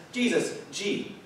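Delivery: sarcastic reply. Pretend. Congregation answering Jesus' command, sarcastic and mock-grateful. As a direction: play the fed-up listener, sarcastic thanks. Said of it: "we collectively say back to Jesus".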